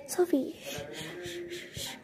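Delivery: soft hushing shh sounds; calm her down with gentle shushing; quietly shushing a screaming girl. Retold or imitated. Hushing screaming child at night.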